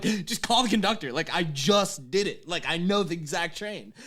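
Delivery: mildly panicked phone plea, acted out; a touch of mock panic; retold panic. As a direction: plead urgently, as if retelling a frantic call. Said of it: "I'm, like, panicking on the phone".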